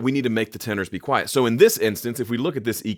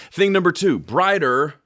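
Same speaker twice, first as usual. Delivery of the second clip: excited announcement; 8 semitones higher, 5 dB louder than usual. Real, not acted. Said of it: "announcing again".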